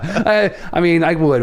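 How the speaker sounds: ordinary talk, nothing marked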